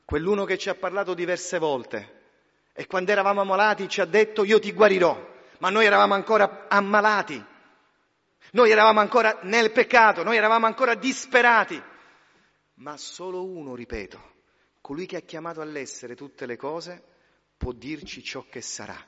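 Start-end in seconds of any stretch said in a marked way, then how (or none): 2.8-11.8 loud, soaring preacher's voice; fiery pulpit proclamation; forceful preaching. Acted. 12.7-19.0 soft, low, slowing benediction; quiet, reverent final call; hushed solemn close. Acted. Hushed closing of sermon.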